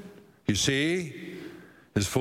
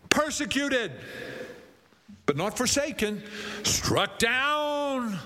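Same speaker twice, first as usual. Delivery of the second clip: scripture reading; 3 semitones higher than usual. Acted. Preacher reads verse eight on afflictions, measured dramatic scripture reading. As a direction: set out the contrasts with long pauses.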